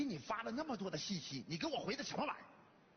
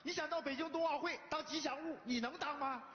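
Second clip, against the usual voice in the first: high-pitched, exasperated rhetorical questions; scornful scolding; 5 semitones higher than usual. Acted. Father scolds son's dreams.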